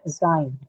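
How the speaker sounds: "A sign" with weak "A", falling stress on "sign"; stress on second syllable. Shown as a demonstration. Teacher repeating the word for students, stress on "sign" in "A sign". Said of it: "stress is going to be marked on the second one".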